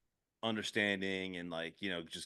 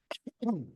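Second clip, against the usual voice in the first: dry cough; 13 semitones higher than usual. Real, not acted. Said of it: "Sorry, I have a cough".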